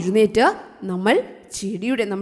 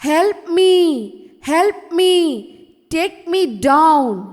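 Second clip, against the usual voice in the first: slow, slightly raised cry for help, lightly acted; pleading for help; 3 semitones higher, much slower than usual. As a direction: read it as a measured plea, drawing out each word. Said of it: "അപേക്ഷിക്കുകയാണ്". (സഹായത്തിനായി ചെറുതായി അഭിനയിച്ച അപേക്ഷ)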